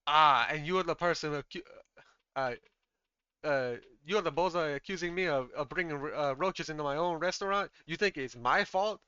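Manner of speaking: mildly heated, incredulous protest; affronted restaurant owner on the defensive; indignant chef. Acted. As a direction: throw the accusation back in disbelief. Chef confronts his accuser.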